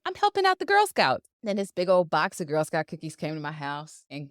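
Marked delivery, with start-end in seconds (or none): 0.0-1.3 mock rationalizing. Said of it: "I rationalized it and said".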